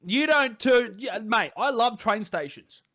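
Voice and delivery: eshay voice. Acted. Clips plays eshay again.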